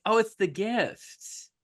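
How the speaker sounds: high, drawn-out mock awe; excited crowd. Recapper voices a crowd spotting the gold, excited.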